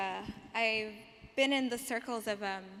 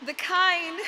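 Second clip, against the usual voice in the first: loud, higher poetic launch; spoken word poem; 8 semitones higher, 9 dB louder than usual. Acted. Poet restarts her poem after apologising, projected spoken word. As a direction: declaim it, on the edge of laughing. Resumes the poem, breaks into laughter.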